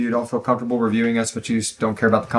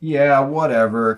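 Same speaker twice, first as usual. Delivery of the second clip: slow, offhand indifference; laid back; 3 semitones higher, slower than usual. Acted. Host acting out how Vima should come off, laid back. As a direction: stretch it out like you couldn't care less. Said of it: "I wanted her to have this kinda laid back".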